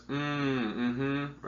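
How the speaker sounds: soft encouraging hum of a listener; reassuring mm-hmm. Shown as a demonstration. Nurse to an upset patient, soft reassuring mm-hmm. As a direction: nod along with a gentle mm-hmm. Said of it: "This sort of reassuring, encouraging sound".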